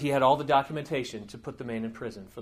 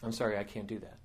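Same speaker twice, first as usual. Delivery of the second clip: quietly composed refusal; understated calm, unruffled reply; 4 semitones lower, 5 dB quieter, faster than usual. Retold or imitated. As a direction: turn them down softly and evenly, a little lower. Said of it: "Arjun said very calmly".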